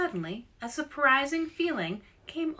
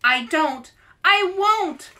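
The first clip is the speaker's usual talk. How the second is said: stubborn refusal; 10 semitones higher, 10 dB louder than usual. A narrator's reading. Child refusing in a story.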